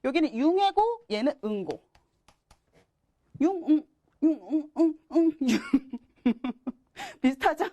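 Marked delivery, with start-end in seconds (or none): 3.4-5.6 융 and 응 chanted back and forth, raised; playful syllable chant; sound drill. Shown as a demonstration. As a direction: contrast 융 and 응 by repeating them. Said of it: "비슷하다 우겨야지".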